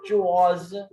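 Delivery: च्वाज begun with the "chu" of चूहा; च्वाज opening like चूहा. Shown as a demonstration. Teacher models the word for table, च्वाज begun like चूहा. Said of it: "चूहे की तरह बोलना है पहले".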